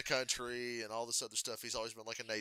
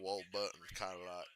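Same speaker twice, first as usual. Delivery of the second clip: Ward Burton; 4 semitones lower, 3 dB quieter than usual. Retold or imitated. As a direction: slip briefly into a rural Southern mumble. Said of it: "how he talks".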